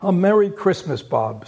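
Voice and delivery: mean every word; earnest. Acted. Scrooge greeting Bob, earnest and hearty. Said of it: "with an earnestness that could not be mistaken".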